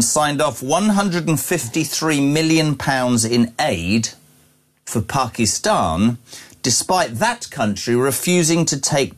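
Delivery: slow, weighty newspaper read-out; measured, indignant news reading. Real, not acted. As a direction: read the story out deliberately, leaning on key words. Reads out a news story.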